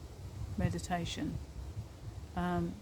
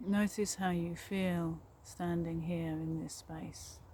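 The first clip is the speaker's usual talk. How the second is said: calm meditation guide with long pauses; guided meditation. Real, not acted. Guiding listeners along a forest path, guided meditation voice. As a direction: lead them gently inward, leaving space after each phrase.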